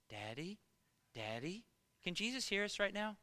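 softly voiced small child asking; hushed, questioning little son; little boy at bedtime. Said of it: "he's just".

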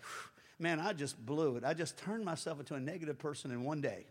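low, soft defeated mutter; quiet mock lament; mock self-pity. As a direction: sigh it out like someone who blew the day. Preacher voices a self-pitying person.

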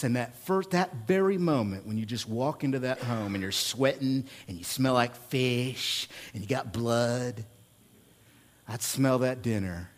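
hushed memory. Real, not acted. Pastor recalling the smell of mom's dinner, hushed. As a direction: savour the moment of coming home. Tender memory of coming home.

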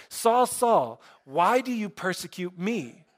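voice from heaven. Retold or imitated. Heaven's voice questions Saul, lightly acted calling out. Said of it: "the voice from heaven that speaks says".

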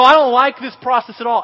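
loud retold panic; mock-hysterical objection; hysterical protest. Scared kid objecting to the barrel ride, loud mock hysteria. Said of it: "And I am hysterical".

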